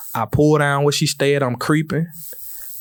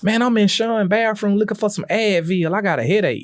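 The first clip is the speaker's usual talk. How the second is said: put-on girlfriend voice; 8 semitones higher than usual. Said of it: "She like".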